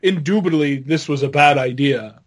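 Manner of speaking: understated impression of a calm boss; lightly voiced, composed disapproval; a hint of a measured boss backstage; Vince. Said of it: "That's my Vince impression".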